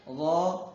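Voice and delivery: غا as held, rounded "zhaw"; thick vowel. Shown as a demonstration. Teacher models heavy letter, غا thick and held. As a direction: stretch غا as a heavy "zaw". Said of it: "ایک الف کھینچیں گے".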